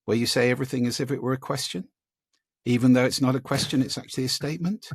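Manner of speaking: mock uptalk demo. Shown as a demonstration. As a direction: lift each phrase like a question. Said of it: "high rising terminal".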